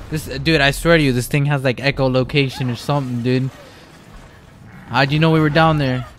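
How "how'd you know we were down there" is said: loud, higher shout at the monster; panicked shout at the pursuer. Real, not acted. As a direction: yell it at the thing chasing you.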